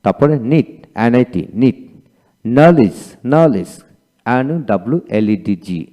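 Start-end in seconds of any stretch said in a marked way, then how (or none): 2.4-3.7 নলেজ in two emphatic syllables, no D sound; silent D. Shown as a demonstration. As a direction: say নলেজ as no-lij, starting on N. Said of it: "এখানে ডি এর উচ্চারিত হবে না".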